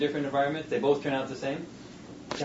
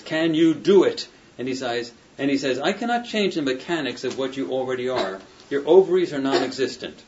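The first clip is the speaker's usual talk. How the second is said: louder, dramatic book reading with character lines; reading a novel aloud; 4 dB louder than usual. Acted. Professor reading the novel's confrontation to his students, dramatic. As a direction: read the scene out to the class, giving the voices a little life.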